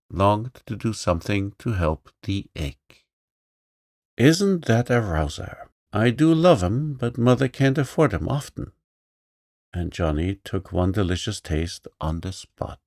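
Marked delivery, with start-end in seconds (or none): 4.2-8.7 put-on higher, louder delighted boy. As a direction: gush over the orange. Johnny delighted.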